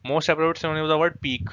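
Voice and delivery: very slow, deliberate reading of the question; slow read-aloud. Shown as a demonstration. Teacher slowly reading the exam question to students. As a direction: spell out the question word by word.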